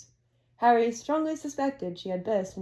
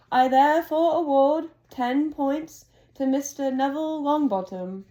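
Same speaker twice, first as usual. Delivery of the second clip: a hint of a wise old wizard; Dumbledore gentle wisdom; 4 semitones higher, 4 dB louder than usual. Dumbledore final award speech.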